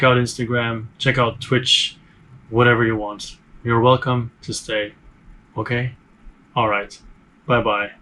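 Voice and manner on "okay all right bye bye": stiff robotic sign-off. Real, not acted. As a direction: say bye like a robot, mechanical. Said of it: "Why am I speaking like a robot?".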